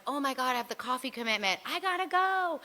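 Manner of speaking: fast, rising urgent realization; quick panicked high exclaim; sudden alarm. Retold or imitated. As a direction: snap out of it and rush off. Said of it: "and then I was like".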